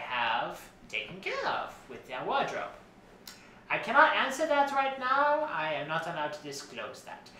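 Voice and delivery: lilting, theatrical designer character voice; fussy costume designer Edison. Acted. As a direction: play a self-important fashion designer, pitch swooping. Plays Edna Mode's cousin Edison.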